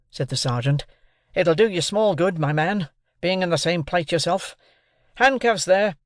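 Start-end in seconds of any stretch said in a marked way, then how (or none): 1.3-6.0 raised, firm orders; commanding. A narrator's reading. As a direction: call for the handcuffs. Sergeant ordering the convicts.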